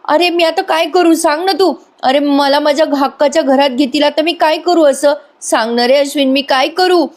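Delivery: high, wailing, put-on sobbing plea; mock tearful pleading. Priya begs Ashwin not to leave, mock tearful high whine. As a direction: whine it out like a fake crying victim. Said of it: "लगेच प्रिया रडायला लागते".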